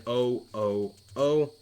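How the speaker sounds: dying groans. Acted. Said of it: "They could be death throes".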